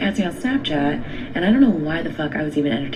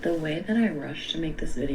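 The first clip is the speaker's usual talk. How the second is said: hushed whisper into the phone; 6 dB quieter than usual. Real, not acted. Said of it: "Why you whispering?".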